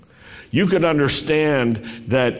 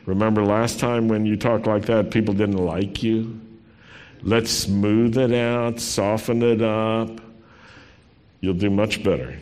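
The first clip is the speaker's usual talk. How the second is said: spin master coach; 2 semitones lower than usual. Pretend. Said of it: "a spin master who said".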